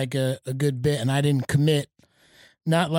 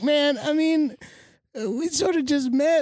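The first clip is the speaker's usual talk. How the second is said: retold inner voice; 9 semitones higher than usual. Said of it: "I was like".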